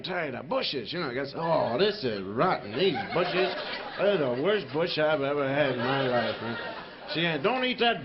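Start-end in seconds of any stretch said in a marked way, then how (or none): 1.3-6.6 laughing complaint. Acted. Caveman complaining about bushes.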